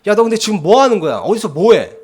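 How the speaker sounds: loud, high imitation of a tough mother; tough mom voice. Tough mother on the phone grilling her son, loud and demanding. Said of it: "그 터프한 목소리로".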